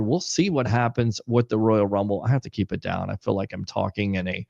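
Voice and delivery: monotone voice. Real, not acted. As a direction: keep it down, monotone. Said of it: "monotone voice".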